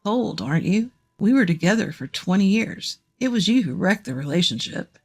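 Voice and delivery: lightly voiced man, mildly reproachful; complaining ex-husband. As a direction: play the ex-husband with a slight grievance.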